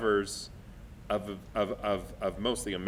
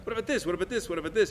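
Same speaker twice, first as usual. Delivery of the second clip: retold eager pitch, higher voice; eager suggesting; 9 semitones higher, 5 dB louder, faster than usual. Director offering songs to the cast, eagerly suggesting. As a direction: offer option after option, pitched up.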